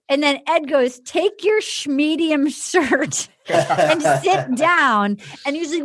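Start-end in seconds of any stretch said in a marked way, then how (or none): 1.0-5.2 laughing quote. Retold or imitated. Quoting Ed's put-down, laughing.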